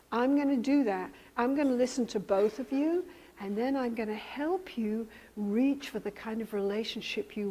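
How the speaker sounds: soft, understanding therapist voice; calm reassurance. Acted. Therapist to an angry client, calm reassurance. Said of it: "deal with that lady getting angry at you".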